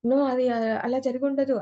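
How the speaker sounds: a demo of a startled, disbelieving outburst; shocked denial. Shown as a demonstration. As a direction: react as if hearing sudden bad news.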